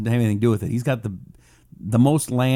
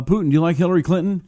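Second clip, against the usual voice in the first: fast, pitched-up mock Trump; hammed-up Trump, rushed; bad Trump impression; 5 semitones higher, much faster than usual. Host as Trump asking Putin, bad Trump impression. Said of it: "I don't do a very good Trump".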